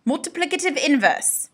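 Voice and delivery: light mock British accent; a hint of a posh British accent. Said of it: "if you say it with a British accent".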